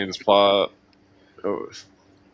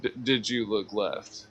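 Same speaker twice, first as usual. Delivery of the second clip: slow, softer probing interrogator; slow quiet interrogation; 9 dB quieter, slower than usual. Pretend. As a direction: lean in and ask slowly, quietly. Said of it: "What would an interrogator do?".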